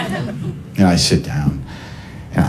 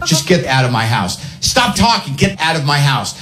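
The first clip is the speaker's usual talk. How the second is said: high, exasperated shouting; mock angry yelling; 7 semitones higher than usual. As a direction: yell at her to leave. Retold quarrel at the door.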